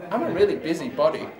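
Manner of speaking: spoken-word poem, measured and emphatic; poetry recitation. Acted. Poet performs a comic poem for an audience, declaimed. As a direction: recite it to a live crowd.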